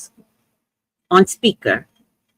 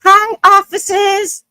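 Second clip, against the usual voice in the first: high, slow, sugary hello to the police; sweet greeting; 11 semitones higher, 6 dB louder, slower than usual. Retold or imitated. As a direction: greet the officers over-sweetly as a signal. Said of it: "So I said".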